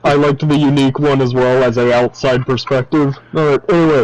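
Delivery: muffled, underwater-sounding mic. Real, not acted. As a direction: voice as if under water. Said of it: "why do you sound like you're underwater".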